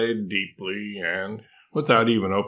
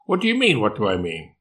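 incredulous echo; faster than usual. Acted. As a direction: throw the question back in disbelief. Koala incredulously throws question back.

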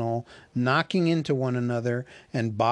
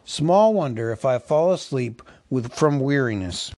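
put-on higher, louder scolding old butler; cross butler; 5 semitones higher, 4 dB louder than usual. Butler scolding the elves for making merry. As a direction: scold the idle young fellows.

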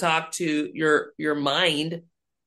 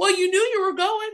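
pastor quoted; faster than usual. Retold or imitated. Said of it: "He goes".

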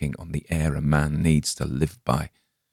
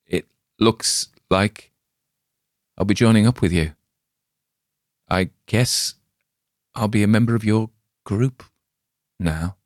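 weak resignation; 4 semitones higher than usual. Acted. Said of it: "A little bit got out".

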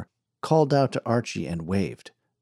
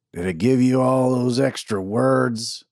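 heckler; 2 semitones higher, 3 dB louder than usual. A narrator's reading. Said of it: "cried a voice from the back".

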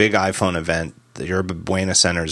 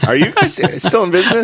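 mocking analyst question; 12 semitones higher, 4 dB louder, faster than usual. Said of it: "if someone would ask on the, the conference call".

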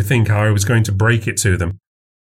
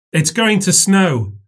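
put-on little girl voice; 9 semitones higher, slower than usual. A narrator's reading. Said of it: "Maisie said".

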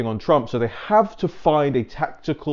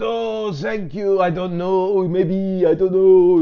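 coy, higher non-committal hedging; non-committal Macron; 7 semitones higher, 5 dB louder, slower than usual. Retold or imitated. Macron dodging the president question, coy and higher. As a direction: play it coy and evasive, pitched up. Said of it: "you know, non-committal".

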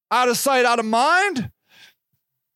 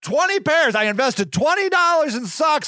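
eager do-gooder; 3 semitones higher than usual. Retold or imitated. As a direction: brag cheerfully about socks. Voicing the sock-giving woman.

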